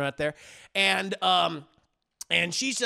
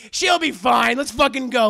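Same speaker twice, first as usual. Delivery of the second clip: louder, dismissive hurry-up; impatient loud push; 3 semitones higher, 6 dB louder than usual. Retold or imitated. Harley hurrying his girlfriend out, loud and dismissive. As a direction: brush her off and drag them out. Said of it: "Harley's like".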